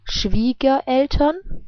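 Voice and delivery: Schwiegereltern said slowly, R softened to a vowel; reduced r. Shown as a demonstration. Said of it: "at the end of a syllable".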